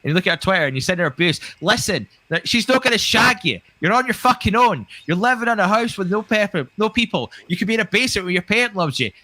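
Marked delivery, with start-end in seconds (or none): 1.6-9.1 mock-furious trash talk, building to shouts; heel wrestling promo. Host berating a commenter on Twitter, hammed-up wrestling promo rant. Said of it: "Channel attitude, baby".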